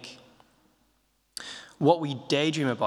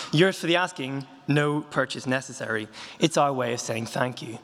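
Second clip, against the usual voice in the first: upbeat sales-pitch list; poem reading. Shown as a demonstration. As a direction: read each item like an advert. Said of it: "reading a poem by the comedian George Carlin".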